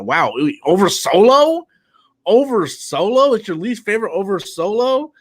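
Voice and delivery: can't believe what you just read; incredulous. Real, not acted. Reacting to a super chat that ranks below Solo, incredulous. Incredulous at viewer's movie ranking.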